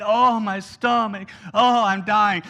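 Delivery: mock bellyaching moan; lightly hammed-up griping, drawn out on "oh"; griping complaint. Preacher mimics the hungry rabble griping on the road, mock complaining. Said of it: "starting to gripe and complain".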